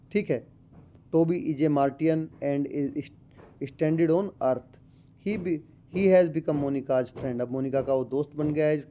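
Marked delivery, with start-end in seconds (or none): 1.2-7.4 slow, deliberate reading of the English passage; textbook read-aloud. Acted. Teacher reading the textbook to students, slow and careful. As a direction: read it out word by word for the class.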